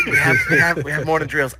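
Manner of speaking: put-on slight New Jersey accent creeping in. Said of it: "I'm slipping into, like, a New Jersey accent".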